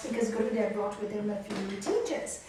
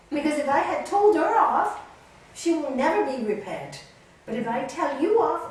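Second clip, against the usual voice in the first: loud, high, insistent explanation; emphatic guru; 5 semitones higher, 10 dB louder than usual. Retold or imitated. Guru explains to Nalini why he scolded her, emphatic. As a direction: imitate a guru driving the lesson home.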